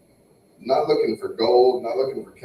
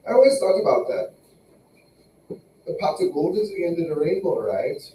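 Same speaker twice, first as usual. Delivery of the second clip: mock Irish-Jamaican accent; comic island-meets-Irish accent; put-on accent; 3 semitones higher than usual. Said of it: "this is my real voice".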